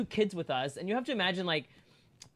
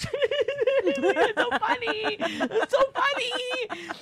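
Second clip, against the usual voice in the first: slow, high, laughing sarcasm; slow high sarcastic laugh-talk; 3 dB louder, much slower than usual. Retold or imitated. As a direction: drag it out, pretend to find it funny. Sarcastic reply while laughing.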